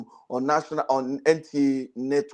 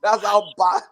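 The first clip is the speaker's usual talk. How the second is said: high laughing words; 13 semitones higher, 5 dB louder than usual. Real, not acted. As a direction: laugh through the punchline. Laughing after own joke.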